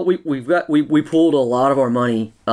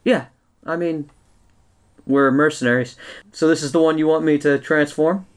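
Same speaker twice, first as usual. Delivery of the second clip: gravelly sly hobgoblin; 3 semitones higher than usual. Acted. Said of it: "the hobgoblin says".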